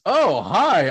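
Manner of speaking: imitated greeting. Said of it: "And he goes".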